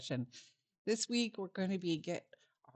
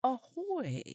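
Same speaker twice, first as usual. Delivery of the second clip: pirate voice; 6 semitones higher than usual. Shown as a demonstration. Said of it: "like, they wanna say hello, they would say".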